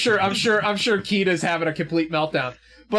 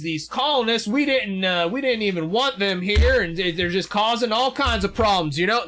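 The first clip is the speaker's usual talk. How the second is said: Wallace; 3 semitones higher than usual. Acted. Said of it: "This is Wallace speaking".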